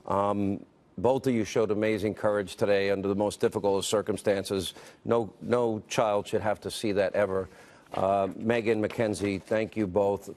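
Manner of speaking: low, sober condolence; sympathetic. Real, not acted. Anchor consoling two students after a school shooting, low and sympathetic.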